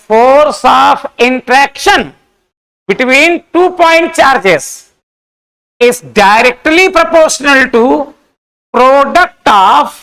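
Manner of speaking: drawn-out, measured dictation with pauses; slow dictation. Acted. Teacher dictating Coulomb's law to the class, slow dictation. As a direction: dictate word by word, stretching each phrase.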